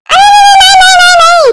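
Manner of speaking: high, quick flustered no no no; hasty refusal. Acted. Mother-in-law stopping daughter-in-law from working, flustered high refusal. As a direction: rush to stop her.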